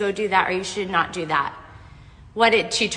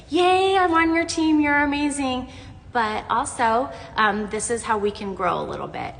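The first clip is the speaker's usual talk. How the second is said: bright, much higher cheerful imitation of her husband; imitating husband; 5 semitones higher than usual. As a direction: play the upbeat husband cheering her on, high. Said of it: "He's like".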